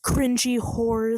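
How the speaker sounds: drawn out slowly through laughter; laughing insult. Real, not acted. Teasing insult while laughing.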